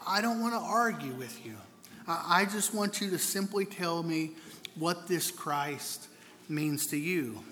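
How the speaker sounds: mild, gentle ask, slowing down at the end; gently. Acted. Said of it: "replied gently".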